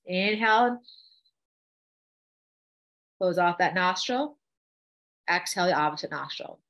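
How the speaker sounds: measured breathing cues with long pauses; guided breathing. Shown as a demonstration. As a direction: lead them breath by breath. Leads a breathing exercise.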